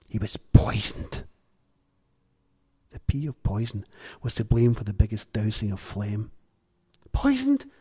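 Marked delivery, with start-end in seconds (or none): 0.1-1.2 slow, breathy whisper laced with spit; spitty whisper. Acted. Gowser telling the girl a secret, whispered slowly. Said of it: "in a whisper laced with spit". 7.1-7.7 high startled yelp. Acted. Checkout girl startled by spit in ear, high yelp. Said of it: "she yelped".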